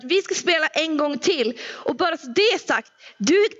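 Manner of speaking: hammed-up sore loser ordering dad back to the table; mock angry demand. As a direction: daughter half-jokingly scolding dad to sit down again. Demanding dad play one more round.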